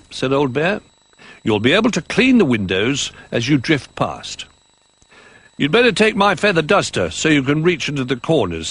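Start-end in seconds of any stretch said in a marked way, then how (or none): 1.4-8.7 lightly voiced toy, higher; helpful toy speaking a bit higher; toy character voice.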